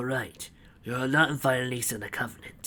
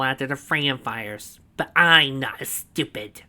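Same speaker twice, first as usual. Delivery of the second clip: proud villain boast; 4 semitones higher, 7 dB louder than usual. A narrator's reading. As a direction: savour every word of the boast. Snively's voice.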